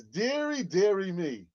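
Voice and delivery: put-on high lilting Dominican accent deary me. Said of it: "in a Dominican accent".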